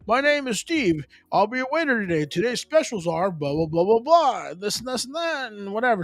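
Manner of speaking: a hint of a chirpy restaurant waiter; friendly waiter. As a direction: play a welcoming server greeting the table. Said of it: "I want somebody to be like".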